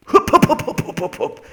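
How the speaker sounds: high, loud dodging grunts; being chased. Real, not acted. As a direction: hop past with effort. Dodging with effort sounds.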